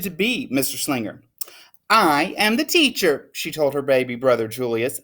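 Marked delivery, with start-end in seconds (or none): 1.9-3.3 bossy pretend teacher. Lily plays teacher.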